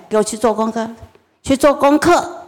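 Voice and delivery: mother losing patience, barking an order; fed-up mother. Retold or imitated. Mother orders her son to homework, snapping. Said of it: "最后一根稻草爆了".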